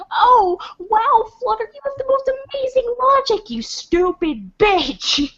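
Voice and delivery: high, fast mock praise; sneering sarcasm building to insult; sarcastic. Mocking the troll's logic.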